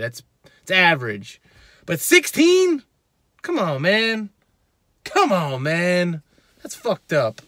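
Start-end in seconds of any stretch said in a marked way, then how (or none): 1.9-6.2 scoffing disbelief. Real, not acted. Scoffing at sixteen inch arms.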